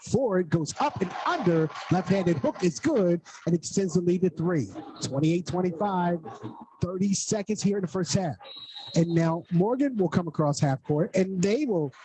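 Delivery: brisk radio basketball play-by-play. Real, not acted. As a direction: call the action live, quick. Live play-by-play call.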